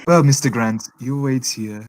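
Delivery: put-on firm order in a German accent; German-accented official giving orders. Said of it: "you do the accent of that".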